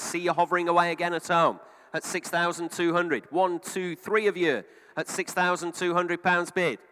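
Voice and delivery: brisk auctioneer calling bids; auction bid spotter. Real, not acted. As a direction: rattle off bids like a live auctioneer.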